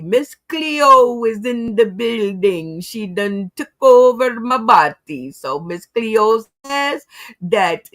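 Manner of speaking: put-on channel a TV psychic's accent, unhurried and mystical; Miss Cleo accent. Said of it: "I don't know what kind of accent I'm using right now".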